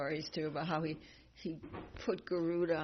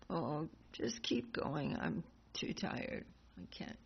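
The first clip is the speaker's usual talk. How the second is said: put-on slow, soft, weary old voice; lightly voiced sleepy old monkey; a hint of a tired old monkey; 3 semitones lower, 6 dB quieter, slower than usual. Old monkey lazily refusing Bhima, slow and soft.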